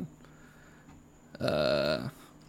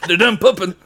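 mock Southern yokel; 6 semitones higher, 5 dB louder than usual. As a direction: ham up a Southern homeowner amid giggles. Southern roof bit continues.

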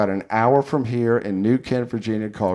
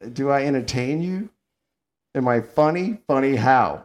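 Joe Pesci impression. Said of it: "Don't ruin my Joe Pesci".

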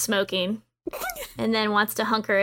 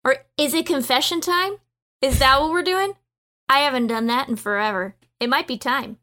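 brash confession offer; 2 semitones higher, 4 dB louder than usual. Acted. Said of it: "elf and says".

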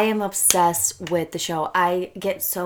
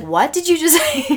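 baffled; 10 semitones higher, 6 dB louder than usual. Retold or imitated. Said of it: "You're like".

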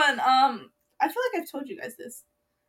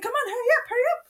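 impatient dad calling; 11 semitones higher, much faster than usual. Retold or imitated. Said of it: "he was like".

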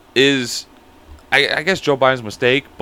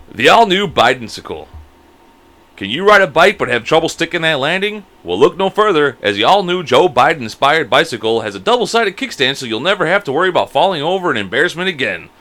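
ad read; 3 semitones higher than usual. Acted. Reads mock commercial.

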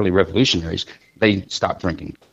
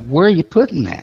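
high disbelieving question; as if you can't believe it; mock shock, pitched up; incredulous; 10 semitones higher than usual. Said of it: "I'm like".

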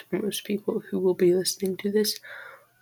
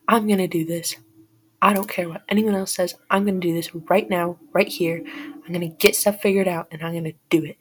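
determined; 5 dB louder than usual. Retold or imitated. Retold vow to start podcast.

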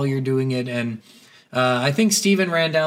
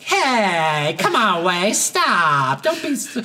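mock girl scolding; slower than usual. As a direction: whine it like the girls in the car. Voicing the girls.

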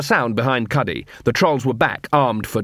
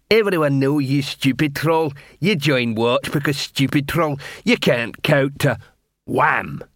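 lightly voiced troll, slowing as it goes; a hint of a scornful troll; jeering troll; 2 semitones higher, slower than usual. Wide troll taunts Detritus about counting, jeering troll voice.

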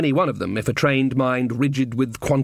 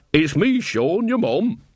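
a hint of a cheery old mum calling up; Sean's mum; 5 semitones higher, slower than usual. Mother calls up to her son on guard, lightly voiced old woman. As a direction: call up to her son, homely and firm.

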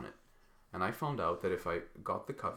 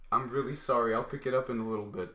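hurried apology; 3 semitones higher, 7 dB louder than usual. Retold or imitated. Kid calling up to the classroom window after hitting a student, rushed apology. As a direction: call up a quick sorry to get off the hook.

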